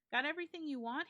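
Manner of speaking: breezy host popping in; hearty host. A narrator's reading. John checking on his guest, bright and loud. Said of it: "he said".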